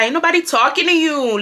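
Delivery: full-blown mock Hispanic accent. Brian brushing off the girl, in a Hispanic accent. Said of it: "I'm talking about the full blown accent".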